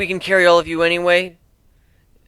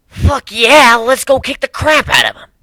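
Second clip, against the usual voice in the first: higher and louder, fired-up whoop; excited cheer; 9 semitones higher, 6 dB louder than usual. Acted. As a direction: cheer eagerly for a fight. Group cheers for a fight.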